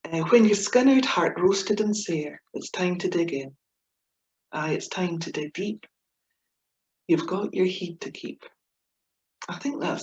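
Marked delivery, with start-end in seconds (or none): 0.3-8.4 poem recital. Acted. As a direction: recite it gently, letting it settle. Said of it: "a little poem called Dig In".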